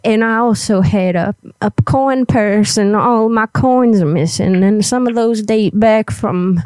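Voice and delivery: lightly voiced old granny; a hint of a little old lady. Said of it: "I gotta get my old granny voice up here".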